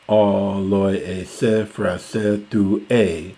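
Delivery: measured, deliberate reading of verse; reciting Homer to the class; slow Greek recitation. Shown as a demonstration. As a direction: read out the Greek line slowly. Reciting the Greek line again.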